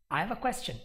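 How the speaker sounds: careful full take; each word said clearly; first gear. Shown as a demonstration. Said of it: "And this is fourth gear".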